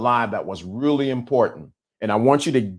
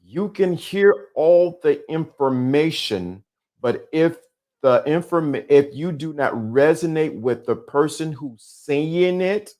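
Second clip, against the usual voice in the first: slow, deliberate restatement; slow and precise; 2 semitones higher, slower than usual. Shown as a demonstration. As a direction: spell it out slowly, word by word. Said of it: "say it slowly and precisely".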